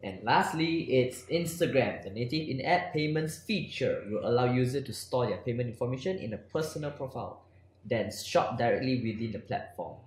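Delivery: crisp news-anchor read; newscaster voice. Acted. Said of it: "You sound like a newscaster".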